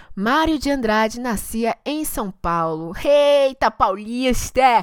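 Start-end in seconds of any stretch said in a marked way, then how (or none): 3.1-4.9 put-on Carioca accent, louder. Reacting to a birthplace while reading a biography: imitating a carioca accent. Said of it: "eu gosto de imitar o sotaque carioca".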